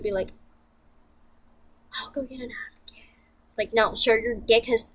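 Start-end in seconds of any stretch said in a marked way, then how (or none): 2.0-3.0 whispered, higher mock-sweet offer; mock gentle offer. Boyfriend voiced, calm offer.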